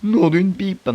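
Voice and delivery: high, loud burst of alarm; startled exclamation. Real, not acted. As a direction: caught off guard, yelp it. Sudden alarm in the game.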